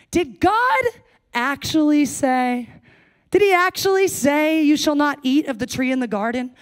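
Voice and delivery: sneering serpent teasing Eve; sarcastic serpent. Acted. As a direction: plant doubt with a sly sneer. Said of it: "Do you hear the sarcasm?".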